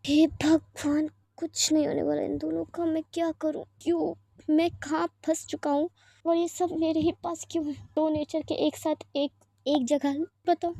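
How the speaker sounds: mother despairing over father and daughter, weary and exasperated; exasperated lament. Acted. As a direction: plead to heaven, fed up.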